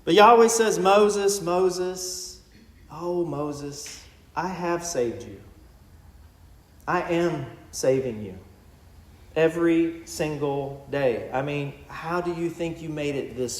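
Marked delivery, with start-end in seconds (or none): 0.8-11.3 tender and growing softer, slowing at the end; gentle divine reassurance. Acted. God reassuring a complaining Moses, tender and soft. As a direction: soothe him like a patient father.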